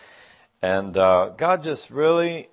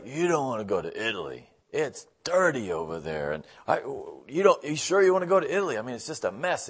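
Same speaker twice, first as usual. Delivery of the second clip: negative barber; 2 semitones higher than usual. Retold or imitated. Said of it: "the guy was just so negative".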